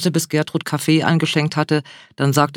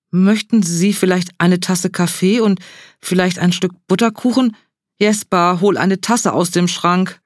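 awestruck and stumbling over words; starstruck, higher and tripping over herself; flustered; 4 semitones higher than usual. Acted. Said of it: "Ehrfürchtig streckte sie ihm die Hand". (aufgeregt und ehrfürchtig)

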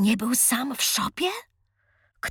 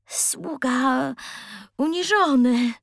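put-on hesitant boy; 3 semitones higher, slower than usual. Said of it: "odpowiedział Razmus z wahaniem".

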